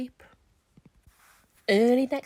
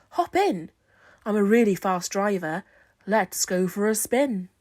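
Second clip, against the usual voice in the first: show-off driver; 6 dB louder than usual. Acted. Reginald shows off.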